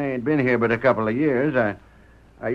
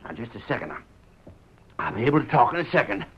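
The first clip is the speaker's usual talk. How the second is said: panting after a long run; winded, gasping between words; out of breath. Acted. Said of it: "I'm so doggone winded".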